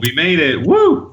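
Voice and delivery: loud high whoop; excited cheer. Real, not acted. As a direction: celebrate like a finish line.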